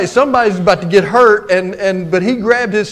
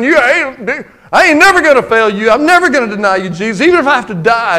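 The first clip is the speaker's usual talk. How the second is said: bold boast; 3 semitones higher, 3 dB louder, faster than usual. Retold or imitated. Peter's bold vow retold.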